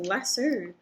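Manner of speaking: lasso said "LASS-oo"; own pronunciation. Real, not acted. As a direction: end lasso on an "oo" sound. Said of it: "I say lasso".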